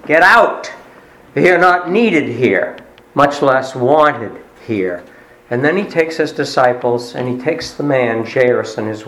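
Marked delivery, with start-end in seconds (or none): 0.1-5.0 commanding order. Acted. Jesus drives out the mourners.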